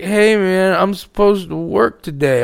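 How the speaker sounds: slow, lightly imitated dope-sick worker; dope-sick guy. Fired worker turning up at the gate, slow dope-sick imitation. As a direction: drag it out a little like a man on dope. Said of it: "all dope sick".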